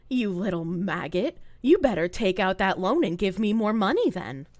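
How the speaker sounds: a hint of a cold, belittling domme; half-hearted imitation of a streamer demanding money; mock findom streamer. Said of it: "they'll be like".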